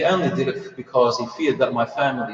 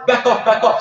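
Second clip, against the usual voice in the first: raised warning; 7 semitones higher than usual. Acted. Acted threat during retold brawl.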